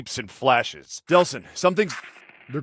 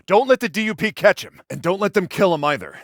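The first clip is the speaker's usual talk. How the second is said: raised, higher-pitched warning; urgent order; 4 semitones higher, 4 dB louder than usual. Acted. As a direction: press the order home urgently. Urgent orders during a chase.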